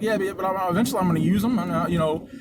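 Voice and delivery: hesitant, repeated false starts; mock stuttering. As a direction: imitate a flustered man stumbling over words. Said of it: "Now he's stuttering and shit".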